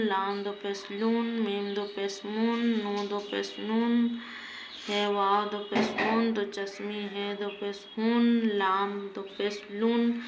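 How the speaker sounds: steady sing-song drill, each line rising at the end; Qaida recitation. Shown as a demonstration. Teacher reciting letters for students, rhythmic sing-song recitation.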